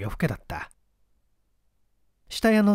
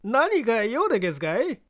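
timid; 9 semitones higher than usual. Acted. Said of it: "恐る恐る言った".

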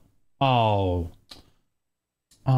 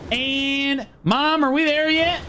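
put-on whiny kid voice; 5 semitones higher, slower than usual.

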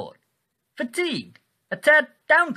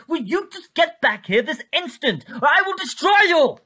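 furious command; 5 semitones higher than usual. Acted. Ordering the viewer back, threatening.

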